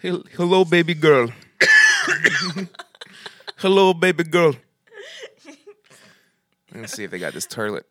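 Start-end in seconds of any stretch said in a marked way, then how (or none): 0.0-1.3 put-on lightly raised girl voice; man doing a woman's voice. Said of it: "do your girl voice again". 3.6-4.6 put-on lightly raised girl voice; man doing a woman's voice. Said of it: "do your girl voice again".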